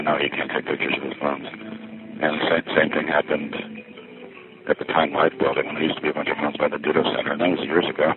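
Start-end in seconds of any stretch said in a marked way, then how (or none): none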